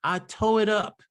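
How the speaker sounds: "toe" for "tore", no R; dialect dropped R. Retold or imitated. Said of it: "they would say toe".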